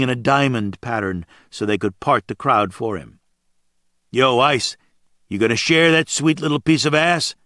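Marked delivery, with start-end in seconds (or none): 4.1-7.4 mock crude call across a crowded bar, higher and louder. A biker in the crowd calls out to Ice teasingly. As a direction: heckle him from across the room. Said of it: "someone called out".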